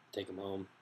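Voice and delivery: speaking around a mouthpiece; talking with pipe at lips. Real, not acted. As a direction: lips pressed on glass tube. Seen 0: Green glass pipe mouthpiece pressed to lips while talking throughout.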